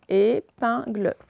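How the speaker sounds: "Épingle" slow, syllable by syllable, falling end; slow teacherly "Épingle"; syllable demonstration. Shown as a demonstration. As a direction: break "Épingle" into clear syllables. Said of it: "qui est en deuxième position".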